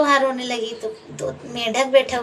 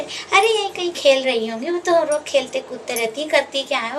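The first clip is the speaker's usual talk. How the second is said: dismissive sister-in-law; 4 semitones higher than usual. Acted. Sister-in-law brushes off brother's question.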